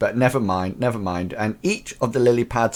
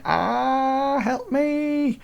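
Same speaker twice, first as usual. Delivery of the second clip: high, drawn-out mock wail; long high-pitched play-acted plea; mock cry for help; much slower than usual. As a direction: wail for help in pretend panic. Mock panic as machine crashes.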